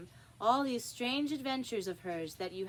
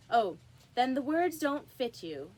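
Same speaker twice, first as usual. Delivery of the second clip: smug pun; 3 semitones higher, 4 dB louder than usual. Acted. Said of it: "looking round the court with a smile".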